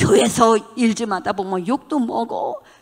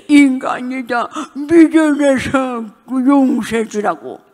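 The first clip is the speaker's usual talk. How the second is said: laughing; 5 semitones higher, 6 dB louder, slower than usual. Retold or imitated. Voicing God's words while laughing.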